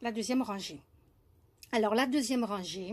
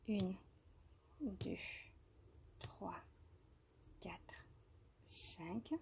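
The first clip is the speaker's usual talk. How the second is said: soft whispered counting, much softer; murmured stitch count, much softer; counting under breath; 3 semitones lower, 16 dB quieter, much slower than usual. Real, not acted. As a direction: whisper the count to yourself while working.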